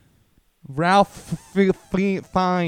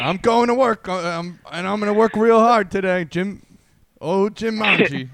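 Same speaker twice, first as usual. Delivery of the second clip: goofy character voice; 5 semitones higher, 3 dB louder than usual. Pretend. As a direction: play a dim cheerful guy. Acting as Jim Manji.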